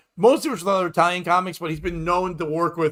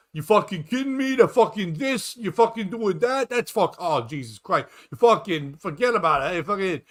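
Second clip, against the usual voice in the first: Italian American guy; 2 semitones higher than usual. Acted. One Italian guy among comics talking over each other, exaggerated Italian American accent. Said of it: "It's just so Italian".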